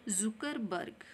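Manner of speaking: जुकरबर्ग with a z sound for ज; z in Zuckerberg. Shown as a demonstration. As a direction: say जुकरबर्ग as zukarbarg. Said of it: "ज के नीचे भी बिंदी आएगी". (ज़ की ध्वनि के साथ जुकरबर्ग)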